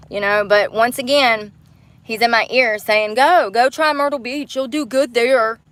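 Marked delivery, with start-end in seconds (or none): 3.1-5.6 mock coaxing. Mimics abuser's urging.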